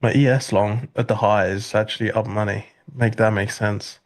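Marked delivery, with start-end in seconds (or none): 2.9-4.0 dry, deadpan and slow; sarcastic. Real, not acted. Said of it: "I was just being sarcastic".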